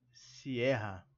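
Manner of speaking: "Sierra" with the stress on the E. Shown as a demonstration. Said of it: "Mas com a sílaba tônica em E". ("Sierra" com tônica no E)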